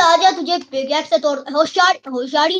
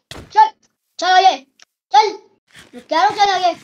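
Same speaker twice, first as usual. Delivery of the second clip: bossy order; 4 semitones higher than usual. Pretend. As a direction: order the prisoner onward like a captor. Captor orders prisoner to march. (रौब से हुक्म देते हुए)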